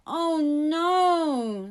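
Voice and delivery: put-on boy fearing trouble at home; worried. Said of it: "twisting his hands".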